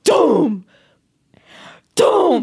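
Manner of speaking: sudden booming thud, vocalised; imitated boom. Retelling a sudden noise in the house, imitated booms. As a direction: imitate a heavy crash, one at a time. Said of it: "we hear a".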